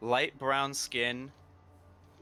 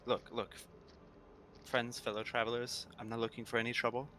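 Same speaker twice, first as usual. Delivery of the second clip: cautious; 6 dB quieter, faster than usual. Acted. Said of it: "very cautiously walk out and say".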